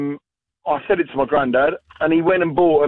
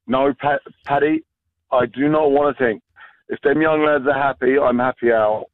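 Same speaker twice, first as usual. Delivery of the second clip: a light hint of an Irish accent, imitating granddad; mildly imitated Irish granddad's accent. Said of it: "I've gone and doing my granddad's accent a little bit there".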